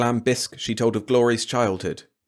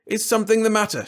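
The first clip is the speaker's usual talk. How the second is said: higher, mock-innocent echo of his wife; 13 semitones higher, 5 dB louder than usual. A husband throwing his wife's words back at her, mockingly. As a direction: parrot her sweetly to mock her. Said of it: "she asks".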